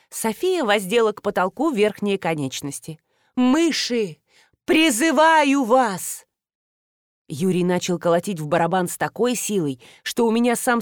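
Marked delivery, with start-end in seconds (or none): 3.4-6.3 slow, higher, loud summoning call; hammed-up sorceress summons; mock incantation. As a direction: call the spirits dramatically. Woman summons bats theatrically.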